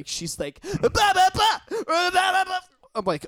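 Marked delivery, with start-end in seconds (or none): 0.6-2.6 high, shrieking retold screaming; a drunk date suddenly exploding in rage; furious screaming. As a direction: scream the blah blah at him.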